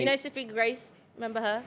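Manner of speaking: put-on casual British-accented question. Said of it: "Yeah, British".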